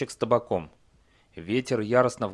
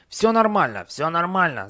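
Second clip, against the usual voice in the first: high, louder troll pleading; hurried placating; 7 semitones higher, 5 dB louder than usual. A narrator's reading. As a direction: reassure the advancing attacker urgently, high. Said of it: "затараторил он". (торопливо, высоким успокаивающим голосом)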